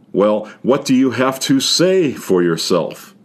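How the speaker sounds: a hint of a stern mother; mildly voiced scolding mother; mother asking her child to explain himself; mother's special tone. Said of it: "in a very special tone of voice".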